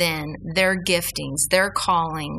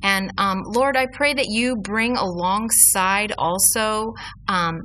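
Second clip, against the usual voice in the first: earnest spoken prayer; praying. Real, not acted. Leads a prayer.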